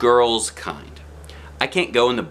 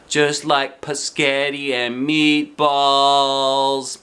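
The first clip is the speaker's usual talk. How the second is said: put-on child voice; 5 semitones higher, 3 dB louder, much slower than usual. A narrator's reading. Junie B in the cafeteria.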